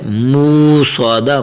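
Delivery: مو سوادہ read smoothly with no hamza catch; children's wrong reading. Retold or imitated. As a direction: imitate the kids' mistaken مو سوادہ. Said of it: "اکثر پڑھتے ہیں بچے ہمارے".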